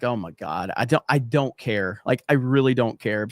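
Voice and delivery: mock-weary refusal; retold exasperation. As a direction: act out being fed up with mom's pestering. Retelling his reluctant reply to mom.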